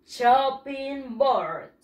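"Chopping board" stretched out at half pace; slow, syllable-by-syllable "Chopping board"; model pronunciation. Shown as a demonstration. Teacher asks how it is said, slow model pronunciation. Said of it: "¿Cómo se dice?".

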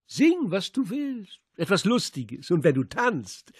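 high, slow sneering command; cruel mocking order. A narrator's reading. Radek orders the old woman to sing, a high sneering command. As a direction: relish humiliating her.

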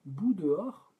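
bout dehors? asked back with a rising, doubtful lift; puzzled question. Real, not acted. Songwriter repeating a chat suggestion, puzzled and questioning. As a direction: repeat bout dehors? as if you can't make sense of it. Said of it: "Je comprends pas bout dehors".

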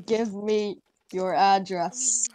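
slow, creepy whispered demand. Pretend. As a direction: breathe it out slowly like a stalker. Creepy joke message read aloud.

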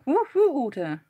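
calling out. Real, not acted. Greeting a viewer in chat.

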